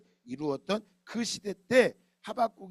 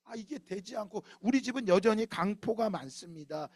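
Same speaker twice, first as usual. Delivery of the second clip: 하소연하는 기도; 2 semitones higher than usual. Retold or imitated. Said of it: "이렇게 말할 수 있어요".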